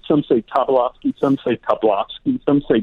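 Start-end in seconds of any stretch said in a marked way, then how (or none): 0.4-1.2 Tobolowsky with a TAH first syllable, four syllables; name variant. Shown as a demonstration. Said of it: "pronounce the name differently". 1.6-2.4 Tobolowsky squeezed to three syllables, "tah-BLAHS-kee"; name variant. Shown as a demonstration. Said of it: "pronounce the name differently".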